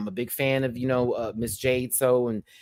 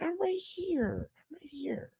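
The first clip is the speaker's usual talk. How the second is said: whisper; 9 dB quieter, slower than usual. Real, not acted. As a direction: hush it gently to the little one. Whispering to baby.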